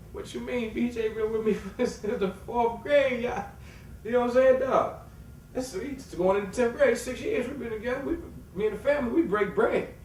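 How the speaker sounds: high, loud, emphatic protest; heated insistence. Retold or imitated. Defending his bond with B J, high loud insistence. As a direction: insist hard he's loyal.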